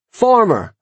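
high-pitched call across the field; yelling. A narrator's reading. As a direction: hail the farmer boldly. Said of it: "I yelled".

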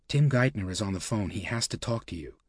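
hushed, softened aside, not a full whisper. A narrator's reading.

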